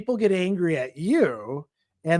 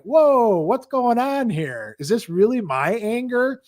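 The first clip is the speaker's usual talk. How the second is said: higher, startled self-check; mock surprised realization; 7 semitones higher than usual. Catching yourself getting dragged into anger, with a startled higher whoa. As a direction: pull yourself up short in surprise.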